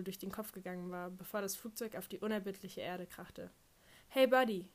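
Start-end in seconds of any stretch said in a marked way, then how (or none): 4.1-4.7 loud, high "Hey Buddy" call; DJ shout. Retold or imitated. Radio DJ calling after the song, loud.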